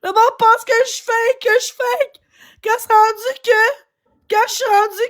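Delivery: real distressed insistence; upset protest. Real, not acted. Upset protest while arguing with listener.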